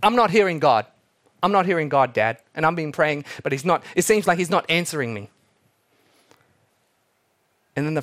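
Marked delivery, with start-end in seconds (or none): 0.0-5.3 frustrated daughter. Retold or imitated. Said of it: "she repeats".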